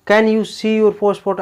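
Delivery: slow, easy casual ask; just ask it like a friend; friendly casual. Shown as a demonstration. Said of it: "ऐसे देखते". (दोस्ताना, सीधा सवाल)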